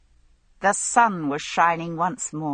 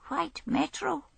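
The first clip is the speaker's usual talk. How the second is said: surprised; 11 semitones higher, 6 dB quieter than usual. Acted. Tramp surprised by question.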